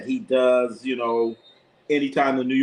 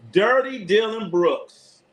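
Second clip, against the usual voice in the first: mocking; 7 semitones higher, 3 dB louder, slower than usual. Real, not acted. Mocking injured rival player.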